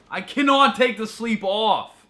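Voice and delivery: high-pitched, loud, slow yell. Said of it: "Why you gotta yell at me".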